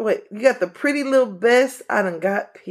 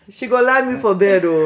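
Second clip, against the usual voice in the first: put-on Nigerian accent; 3 semitones lower, 3 dB louder than usual. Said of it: "I hear your African accent".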